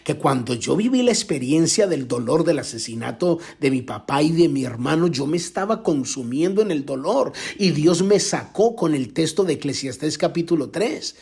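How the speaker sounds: normal talking voice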